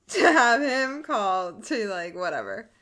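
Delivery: loud laughing-crying voice; half laughing, half crying. Real, not acted. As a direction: laugh through the words.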